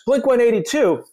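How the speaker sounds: high-pitched British rock-star impression; a singer. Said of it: "He goes".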